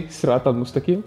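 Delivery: Arabic pronunciation of "Sirat al-Mustaqim"; Arabic phrase. Shown as a demonstration. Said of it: "In Arabic, we say".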